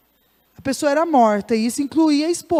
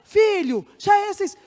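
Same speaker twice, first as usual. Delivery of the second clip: a bit firmer; 7 semitones higher than usual. Acted. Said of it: "fala um pouquinho mais forte".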